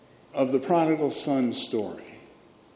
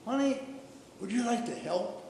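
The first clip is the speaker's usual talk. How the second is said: higher, soft quote of a kindly cashier; gently coaxing; 8 semitones higher, 9 dB quieter than usual. Retold or imitated. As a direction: lightly voice a kind offer to a child. Cashier gently invites excited little girl.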